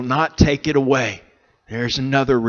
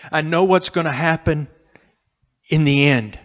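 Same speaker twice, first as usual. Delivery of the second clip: choked up; 3 semitones higher than usual. Real, not acted. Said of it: "I'm getting choked up".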